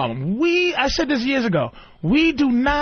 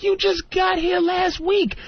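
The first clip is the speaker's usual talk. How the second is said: higher, shouted disbelief; mock outraged comeback; exasperated retort; 6 semitones higher than usual. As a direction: yell it at someone who just arrived. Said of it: "And I'm like".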